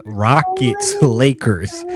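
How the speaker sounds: a quick playful hint of an Italian accent; mock Italian accent. Host tosses the matchup to Rush in a light mock Italian accent. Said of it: "he was Italian for a second".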